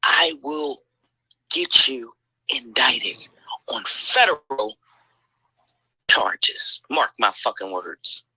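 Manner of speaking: hissed threat, low and unvoiced; threatening whisper. Vlogger whispering a threat at an enemy, slow and menacing. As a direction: whisper the threat slowly, like a promise.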